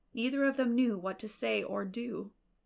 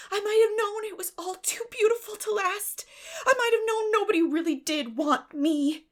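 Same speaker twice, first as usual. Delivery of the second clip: crying out; 13 semitones higher, 10 dB louder than usual. Acted. Orphan girl realising she's unwanted, anguished cry. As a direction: wail it out in disbelief.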